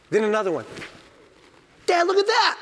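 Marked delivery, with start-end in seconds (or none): 1.9-2.6 put-on very high, wonder-struck child; a son marveling at a bear cub; amazed kid voice.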